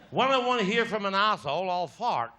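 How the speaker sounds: put-on a light Scottish policeman accent; mock-stern Scottish copper, lightly done; a hint of a Scottish policeman's accent. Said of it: "Say something else".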